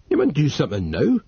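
Northumbrian, urgent. A narrator's reading. Narrator voices Dodd.

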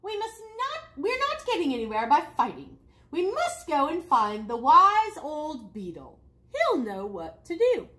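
rally the animals away from fighting; urgent chief frog. Acted.

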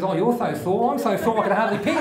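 lisped "sore" comes out as "Thor"; punchline with s turned to th; lisping woman. Acted. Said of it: "she's got this lisp".

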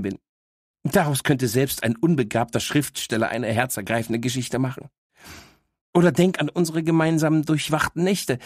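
a know-it-all little dog teasing her owner; cheeky talking dog. Acted. Dog Miss Happy speaks. (leicht gesprochene, vorlaute Hündin)

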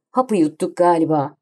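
usual speaking voice

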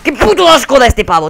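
high, exasperated cursing; disgusted rant. Real, not acted. Player fed up with an opponent, disgusted outburst. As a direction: spit it out in real disgust.

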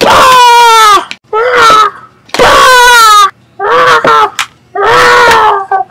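repeated drawn-out play-fight yells; mock battle screams. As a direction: trade pretend screams of combat. Acted battle with the groin punchers.

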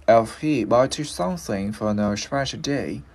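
slowish model run through in one phrase; linked full sentence. Shown as a demonstration. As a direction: join "if he bought you something for no special day" without pauses. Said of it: "bây giờ mình lựa cái này".

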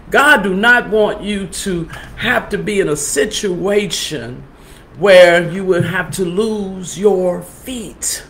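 slow, soft, moved voice; getting emotional. Real, not acted. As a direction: let it catch as you talk about God's love. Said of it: "Anyway, I'm getting emotional".

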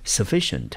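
Sufficient with stress on fi; teacher repeats for review. Shown as a demonstration. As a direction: model Sufficient in review, leaning on fi. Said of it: "我们再来复习一次".

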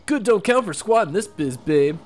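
lightly voiced cocky wrestler; a touch of a tough-guy champ; boastful brawler. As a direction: strut and brag like a ring champ. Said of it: "the famous Rockhawk".

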